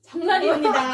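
loud bright correct-answer call; quiz host announce. Acted.

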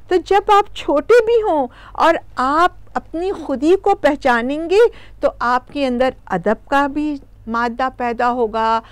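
plain reading voice

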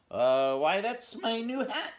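high, loud little hedgehog; proud little hedgehog; eager hedgehog. Acted. Voiced hedgehog answering.

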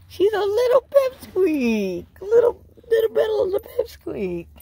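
very high, loud squeaky singsong. Real, not acted. Owner teases whining little pipsqueak dog, high loud baby talk.

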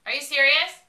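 high, very loud incredulous question; real disbelieving shout. Real, not acted. Told she has a flat tire.

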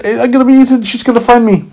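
high, loud panicked squeak; panicked carrot. Acted. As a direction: yelp in alarm like a little carrot. Carrot fears mother.

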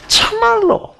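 high, slow sly Gyeongsang drawl of "참말로"; Gyeongsang dialect serpent. Acted. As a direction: coax in a cunning Gyeongsang accent. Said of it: "경상도 사투리로 제가 각색을 할게요".

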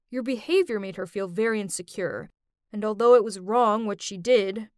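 put-on ex-boyfriend's message. Boyfriend explains the prank to his ex, lightly voiced reproach.

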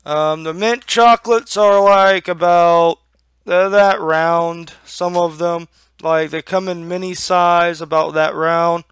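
talking with a lip full of dip. Real, not acted. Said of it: "Already got my lip packed".

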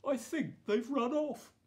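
high worried little voice; worried child voice. A narrator's reading. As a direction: fret like a small boy. Prince answers maid worried.

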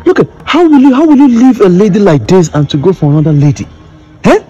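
indignant. Acted. Fiancé confronting a rival over his fiancée, indignant.

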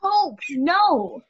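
loud shocked outcry; dismayed cry. Acted. A girl reacting to being offered, loud. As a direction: wail it in dismay.

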